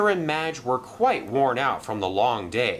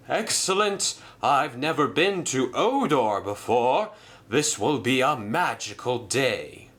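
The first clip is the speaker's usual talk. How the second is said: higher, thrilled little engine; bubbling with delight at a new place; excited engine; 4 semitones higher than usual. Acted. Merlin telling Madge about his first visit, higher and thrilled.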